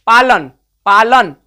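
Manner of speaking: पालन said slowly, ending अन drawn out; slow, deliberate पालन with a held अन; slow demo pronunciation. Shown as a demonstration. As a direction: stretch पालन so अन rings clear. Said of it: "बोल के देखिए".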